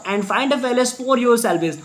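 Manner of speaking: drags each word out, very slow; very slow reading aloud. Shown as a demonstration. Teacher reading the line to students, very slowly. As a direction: dictate it word by word.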